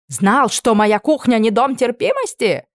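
sarcastic angry retort. Acted. Cook retorting.

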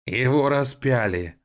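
high, slow creaking machine voice; a rusty guard machine calling from nowhere; creaky robot voice. A narrator's reading. Hidden robot guard startles the siblings, creaking high and slow. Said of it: "донёсся скрипучий голос".

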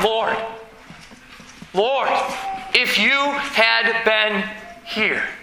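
slow, mournful plea to the Lord; pleading lament. Retold or imitated. Mourners crying out to the Lord, a slow lament. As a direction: draw it out like a grieving cry. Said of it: "No, we cry".

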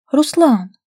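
one last plea to stop; pleading call. A narrator's reading. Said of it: "предприняла Дарья последнюю попытку". (отчаянно, громко)

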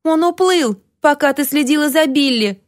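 put-on high, tearful child's wail; child crying. Greyden tells Toni in tears, high tearful child voice. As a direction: blurt it out through tears like a little boy. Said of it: "Грейден залился слезами".

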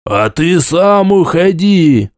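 shouting from the crowd. Acted. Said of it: "прокричали снова из толпы".

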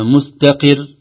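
مستقر with a quick, single ر; short r, wrong. Shown as a demonstration. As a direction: clip the ر of مستقر. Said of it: "لا نقول". (نطق خاطئ لمستقر براء قصيرة)

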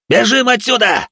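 high, loud, breaking yell of panic; a cry of pure fear; terrified shout. Acted. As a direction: scream at everyone to run. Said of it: "кто-то крикнул, голос срывался от ужаса".

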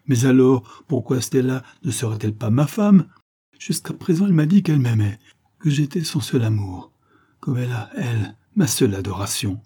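mildly desperate, lifting pleading; distressed protest. Acted. Rejected lover recalls her love, mildly distressed. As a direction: protest with wounded insistence. Harry argues against rejection.

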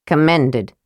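"Commended" said as a plain correction; correcting. A narrator's reading. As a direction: set "Commended" straight with a falling tune. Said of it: "Tanis corrected".

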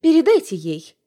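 icy, controlled reply; coldly. Acted. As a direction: freeze her out with each word. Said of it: "холодно отвечаю я".

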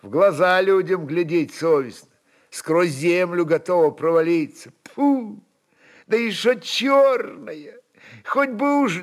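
high, nagging woman's grumble; grumbling wife. A narrator's reading. Alyona grumbles at her husband, high and nagging. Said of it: "хотела поворчать Алёна".

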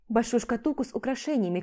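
plain reading voice

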